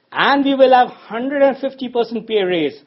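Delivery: high, loud, thrilled union rep; excited announcement. Retold or imitated. Union rep announcing big wins to workers, excited and loud. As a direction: announce it like a triumphant speaker at a rally.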